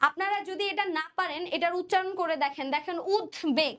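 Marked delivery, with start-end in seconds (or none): 3.2-3.7 উদ্বেগ split into ud and beg, b sounded; careful pronunciation. Shown as a demonstration. Teacher shows students how the word sounds, careful pronunciation. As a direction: say উদ্বেগ in two clear parts, ud-beg. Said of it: "একটু উচ্চারণ করে দেখেন".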